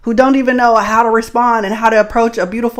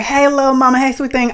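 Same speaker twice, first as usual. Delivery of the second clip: catcaller's call; 5 semitones higher than usual. Retold or imitated. The fool calling to her as she walks by, higher catcall. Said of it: "the fool is just like".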